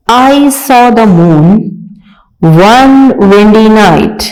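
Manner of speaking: reading a poem aloud slowly, word by word. Shown as a demonstration. Teacher reading a poem to young pupils, slow and clear. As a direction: recite each word clearly for the class. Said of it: "आइए पढ़ते हैं".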